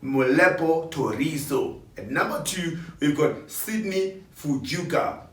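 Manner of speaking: radio presenter voice. Shown as a demonstration. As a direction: hype each name like on air. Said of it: "I'm gonna speak like a radio presenter".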